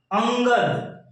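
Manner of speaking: अंगद drawn out slowly on the nasal अं; slightly hard nasal. Shown as a demonstration. Teacher gives an anusvar example, firm slow nasal. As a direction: lean on the nasal at the start of अंगद. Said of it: "थोड़ा सा प्रभाव पड़ रहा है इस पे".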